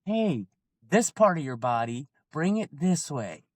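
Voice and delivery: patient coach easing the student along; nice calm coach. Shown as a demonstration. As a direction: guide the flyer gently, no rush. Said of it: "in a nice, calm, slow manner".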